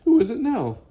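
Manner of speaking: high, loud demand; loud annoyed question, starting high; exasperated call. Acted. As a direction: call out high at an unwanted visitor. Frank startled by another noise.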